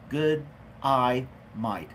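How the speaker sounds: put-on Aussie accent broken up word by word; Australian accent. Streamer practising a greeting for an Australian viewer, word-by-word Australian accent. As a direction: sound out each word in a mock Australian accent. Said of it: "That's my Australian accent, uh, impersonation".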